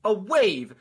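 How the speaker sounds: incredulous, drawn-out objection; exasperated explaining. Real, not acted. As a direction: spell it out slowly in disbelief. Exasperated argument that audio isn't rays.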